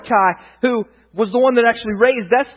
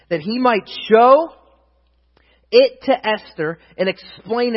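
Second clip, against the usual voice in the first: emphatic, measured reading aloud; scripture reading; 3 semitones higher, 4 dB louder than usual. A narrator's reading. Preacher reading Esther to the congregation, emphatic reading. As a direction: read scripture out, leaning on key words.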